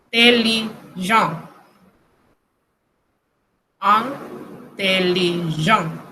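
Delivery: slow "intelligent" with nasal first and last vowels; French nasal demo. Shown as a demonstration. Teacher showing that IN sounds alike, slow French nasal demo. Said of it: "I N se pronuncia igual".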